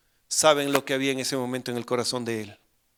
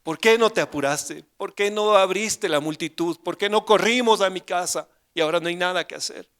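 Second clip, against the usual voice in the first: reclamo angustiado; 4 semitones higher, 5 dB louder than usual. Retold or imitated. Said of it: "habrá estado gritando".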